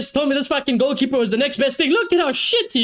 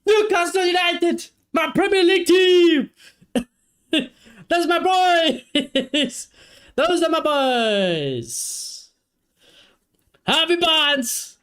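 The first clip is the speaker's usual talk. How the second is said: high, slowed, laughing cries of pride; joyful celebration; 5 semitones higher, slower than usual. Real, not acted. Fan hailing his team and the scorer, joyful shouting. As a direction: bask in it, half laughing.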